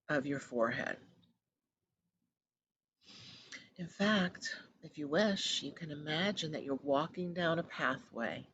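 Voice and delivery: unhurried meditation voice, long pauses between phrases; guided meditation. Acted. Host leading listeners down an inner pathway, calm guided meditation. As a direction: guide them calmly inward.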